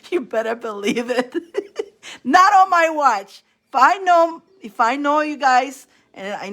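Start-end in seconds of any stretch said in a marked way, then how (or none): 0.1-3.4 firm protective not on my watch; defiant. Real, not acted. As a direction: lay down the law. Defiant declaration.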